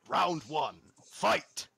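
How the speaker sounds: building to a loud, high "fight!"; fight announcer. Acted. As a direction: call the fight like a boxing announcer. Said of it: "And Biff goes".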